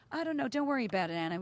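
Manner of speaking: imitated easygoing reassurance; calm and nice. Boyfriend soothing the frantic daughter, calm and nice. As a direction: gently brush the worry aside. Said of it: "he's real calm and nice".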